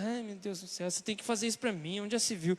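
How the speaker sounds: whimpering, pouty complaint, mock sobbing; mock whiny crying. Preacher mimics himself whining to his wife, mock whimper. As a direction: whine like a sulking child. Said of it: "Chorando, assim".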